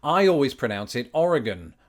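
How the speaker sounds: "Oregon" said OR-i-gun, stress on the first syllable; correct Oregon. Shown as a demonstration. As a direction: land "Oregon" as a confident OR-i-gun. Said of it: "I'm just repeating it until you're convinced".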